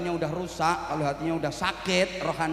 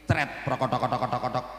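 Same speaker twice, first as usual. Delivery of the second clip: rapid sputtering mock toilet noise; imitated splatter noise; 4 semitones lower than usual. Preacher mimics a baby soiling mid-breakfast, imitated splatter. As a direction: rattle off a comic splattering sound.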